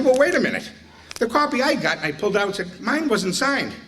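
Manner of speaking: high, mock-puzzled reveal; spring the trap with fake innocence; sly reveal. Springing the prank in retold story.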